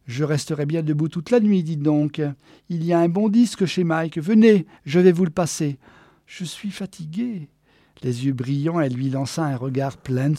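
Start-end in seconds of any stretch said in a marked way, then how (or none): 0.1-5.8 loud, brisk invitation; eager Geneviève, lively. Acted. Geneviève invites Walter to hear a record, lively. 6.3-7.5 soft, slightly raised, feeble voice; weary protest. Acted. Walter turns down Geneviève's late invitation, weary. Walter repeats his excuse to escape.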